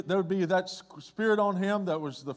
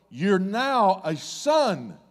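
drawn out slowly, each word weighed; slow declaration; 3 dB louder, much slower than usual. Acted. Jesus confirms the man's sonship, slow and deliberate. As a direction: lay it down slowly and solemnly. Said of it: "and he's going".

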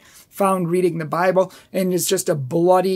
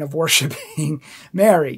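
real chuckle breaking into the phrase; failing to keep straight face; 2 semitones lower than usual. Real, not acted. Apologist explaining the booklet's claim, cracking up mid-phrase. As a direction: lose composure just before the last word. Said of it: "Can't say it's with a straight face".

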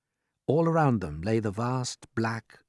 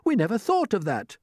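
pitched-up, lively exclamation; amazed cry; 12 semitones higher, 4 dB louder than usual. A narrator's reading. Creatures take in James's discovery, amazed. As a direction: exclaim it as a revelation. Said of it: "they cried".

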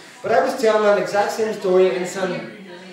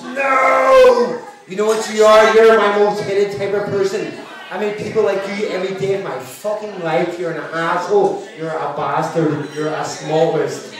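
furious heckler; 2 semitones higher than usual. Retold or imitated. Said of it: "She goes".

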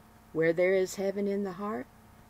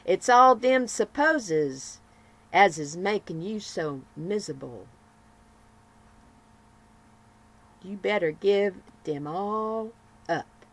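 Nancy's advice; 6 dB louder than usual. Acted. Nancy advising her gloomy friend, lightly voiced and louder. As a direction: urge her friend plainly to let go. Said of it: "she added to her gloomy friend".

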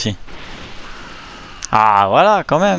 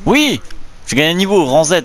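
excited cheer; 4 semitones higher than usual. Real, not acted. Gamer wins, levels up.

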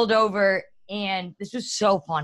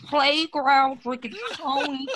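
slow words through laughter; laughing; 2 semitones higher, much slower than usual. Real, not acted. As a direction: giggle through the line. Joking while laughing.

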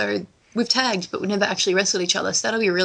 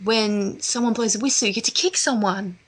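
bad American accent; 3 semitones higher than usual. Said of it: "I can't do the American accent at all".

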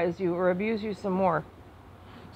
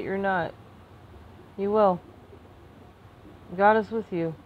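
gentle, lowered voice with long pauses; calm reassurance; 4 dB quieter than usual. Real, not acted. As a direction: soothe someone who feels out of control. Calming viewers before signing off.

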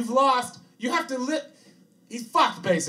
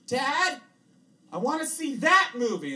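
put-on higher, eager little-kid voice; child asking; 11 semitones higher, 5 dB louder, slower than usual. Boy asks his father at the theater, high kid voice. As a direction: pipe up like a ten-year-old.

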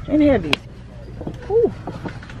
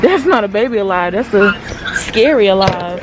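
loud; 6 dB louder than usual. Real, not acted. Reacting to scary doll.

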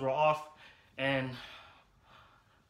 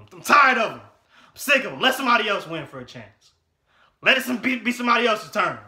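loud, higher fed-up complaint; fed-up shout; 8 semitones higher, 11 dB louder than usual. Real, not acted. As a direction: shout it, sick of them winning. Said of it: "I'm so mad right now".

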